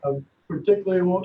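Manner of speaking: echoey, distant phone line; sounding like you're down a well; inside a well. Real, not acted. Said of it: "You sound like you're in a well".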